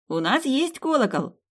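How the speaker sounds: high, slow happy cry; joyful shout. Acted. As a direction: call out with delight. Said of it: "радостно выкрикнул паренёк".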